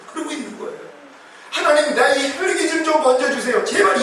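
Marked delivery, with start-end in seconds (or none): 1.5-4.0 mock pleading prayer, pitched up; 애원하는 기도. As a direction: imitate a believer begging God for rescue. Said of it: "이런 기도 좀 하지 마세요". (높은 목소리로 애원하는 기도 흉내)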